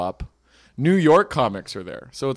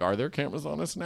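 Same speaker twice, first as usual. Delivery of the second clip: mock freaking out; 2 semitones higher, 8 dB quieter, much faster than usual. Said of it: "I start freaking out".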